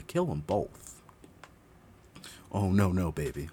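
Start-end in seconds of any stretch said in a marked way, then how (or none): 2.5-3.5 loud disbelief. Real, not acted. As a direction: shout it out in horror. Shocked reaction.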